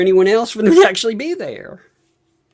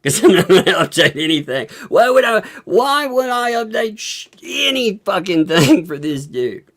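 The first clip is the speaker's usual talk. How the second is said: indignant; 4 semitones higher than usual. Real, not acted. Indignant refusal to update anything.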